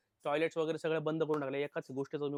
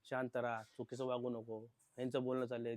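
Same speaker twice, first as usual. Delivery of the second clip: retold soothing; 5 semitones lower, 6 dB quieter than usual. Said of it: "मग सगळे तिला समजावत्यात".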